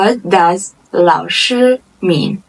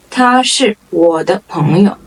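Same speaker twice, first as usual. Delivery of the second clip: word-by-word teaching pace. Shown as a demonstration. Model sentence, slower first take.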